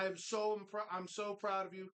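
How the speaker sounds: dry, mock praise for being unprepared; sarcastic. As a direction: praise them while meaning the opposite. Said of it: "That's sarcasm".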